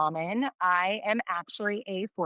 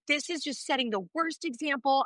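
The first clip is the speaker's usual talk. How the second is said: indignant retold reprimand; retold reaming-out; 5 semitones higher than usual. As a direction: re-enact an exasperated teacher's lecture. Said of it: "I'm just reaming him".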